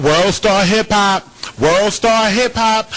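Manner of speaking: loud, high, drawn-out imitation of a bystander's yell; mock yelling. Host mocking the woman filming the beating, mock yelling. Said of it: "She just kept yelling out".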